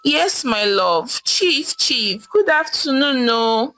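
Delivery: breezy offhand reply; wife breezily brushing off her jailed husband; nonchalant. Acted. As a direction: brush him off lightly. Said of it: "Mama Ife replied nonchalantly".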